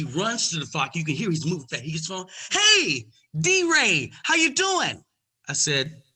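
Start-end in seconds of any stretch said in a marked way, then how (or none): 2.5-5.0 high, loud over-friendly greeting; eager agent. Retold or imitated. Agent rushing to the phone to suck up. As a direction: greet him like a long-lost best friend.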